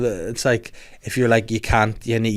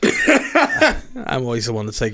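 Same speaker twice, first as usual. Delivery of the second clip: laughing; slower than usual. Real, not acted.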